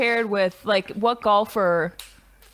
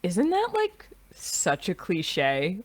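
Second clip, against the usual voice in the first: mock mom; 2 semitones lower, 4 dB quieter, much slower than usual. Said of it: "she just goes".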